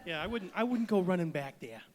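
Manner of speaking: put-on lightly done Kennedy-style New England accent; a hint of genteel New England accent; soft-spoken Kennedy. Joking about the restaurant, mild Kennedy New England accent. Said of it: "almost like a soft-spoken Kennedy".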